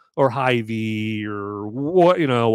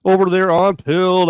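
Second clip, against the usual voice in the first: hype shoutout; 9 semitones higher, 5 dB louder than usual. Real, not acted. Hyped shoutout to chat.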